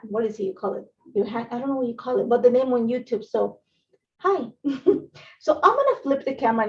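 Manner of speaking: usual speaking voice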